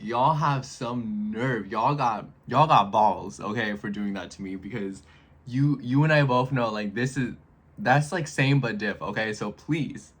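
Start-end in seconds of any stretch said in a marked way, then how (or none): 0.0-4.6 sassy call-out. Retold or imitated. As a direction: drag it out like telling off the company. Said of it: "I'm like".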